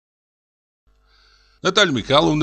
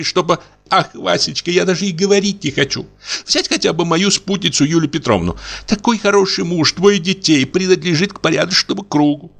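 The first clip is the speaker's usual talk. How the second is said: put-on gossiping young wife; 7 semitones higher than usual.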